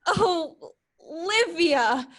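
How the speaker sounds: crying the name high and loud to the hills; calling out. Acted. Viola cries out Olivia's name to the hills, loud ringing call.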